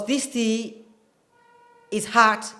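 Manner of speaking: American "hot" said like "haht"; American accent. Shown as a demonstration. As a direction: open "ah" in "hot", General American demo. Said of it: "typical American accent".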